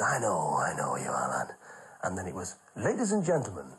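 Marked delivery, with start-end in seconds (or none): 0.0-1.5 put-on low, hushed old comic soothing a nervous lad; a low half-whisper, calming him down; low whispered reassurance from an old pro; Les Dawson reassuring. Les voiced. 2.8-3.7 stately TV compere; announcer voice. Retold or imitated. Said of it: "that good television voice".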